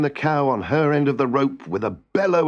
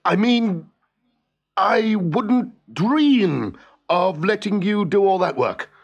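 high, drawn-out insistence; hasty backtrack; 7 semitones higher, much slower than usual. A narrator's reading. Husband talks wife out of mowing, insistent backtrack. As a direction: cover the outburst with over-sweet insistence, stretching the words.

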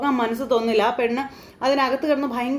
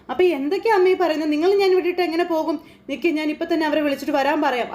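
upset protest; 4 semitones higher than usual. Acted. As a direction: refuse to leave her mother behind. Daughter arguing with locked-up mother. (അമ്മയോട് ഉയർന്ന ശബ്ദത്തിൽ വിഷമത്തോടെ തർക്കിക്കുന്നു)

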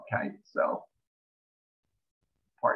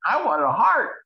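partner's request voiced; 9 semitones higher, 8 dB louder than usual. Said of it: "they said".

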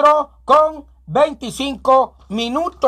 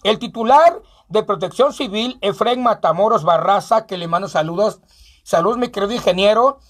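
steady local newscaster; radio news bulletin; news read. Acted. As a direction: read the fire report straight. Reads news report.

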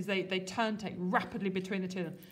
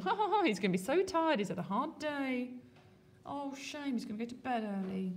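mocking glee; 2 semitones higher than usual. Lady Macbeth gloating over tired Duncan, mock pity. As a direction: gloat over the sleepy king.

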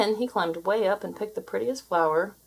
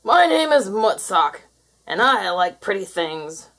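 gloating creature; 2 semitones higher, 5 dB louder than usual. Acted. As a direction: brag like a greedy beast. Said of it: "he laughed".

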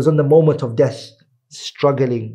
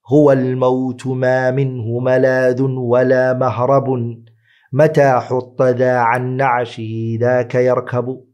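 measured, sustained Arabic verse recitation; poem recitation. Acted. Preacher quoting a poet on death, solemn poem recitation.

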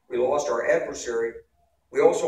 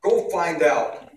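put-on a slow, louder, higher order in a Polish accent, laughing; 4 semitones higher, 7 dB louder, much slower than usual. The Polish boss sending Wes off, in a laughing Polish accent. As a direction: bark the order as a Polish general, amused. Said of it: "with his Polish accent".

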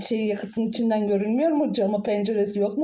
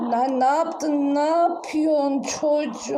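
alarmed; 5 semitones higher, slower than usual. Acted. Meteor falls, aunt alarmed.

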